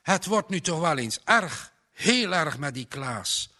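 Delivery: ongeduldige vader. A narrator's reading. Angry father fretting aloud.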